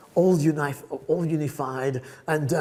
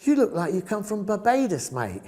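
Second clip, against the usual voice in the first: imitated Cockney classmate; 4 semitones higher than usual. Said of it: "they would say to me".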